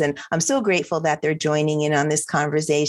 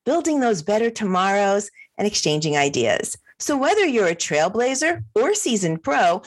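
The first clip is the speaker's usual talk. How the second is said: upbeat announcer read with lifted, swooping pitch; podcast intro; 2 semitones higher than usual. Acted. Host welcoming fundraisers to a new episode, podcast intro read. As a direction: sell the show like a radio host.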